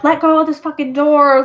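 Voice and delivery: half-acted shout at whoever holds the door; imitated scream. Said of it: "So he starts screaming".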